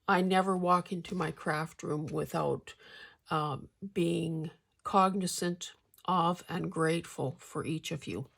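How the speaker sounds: talking around a hard candy; words slurred by a sweet in the mouth; marbles in mouth. Real, not acted. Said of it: "talking with marbles in my mouth".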